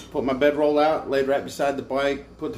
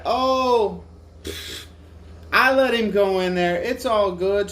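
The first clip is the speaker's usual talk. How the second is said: mock cashier voice; 8 semitones higher, slower than usual. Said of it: "she's like".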